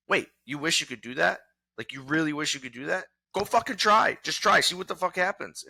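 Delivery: rising from incredulous question to a loud pushy yell; challenging shout. Retold or imitated. A friend yelling at a dreamer to go try, building to a shout.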